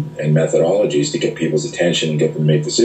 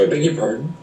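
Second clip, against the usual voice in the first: mock offended surprise; 8 semitones higher than usual. Seminar women offended by question.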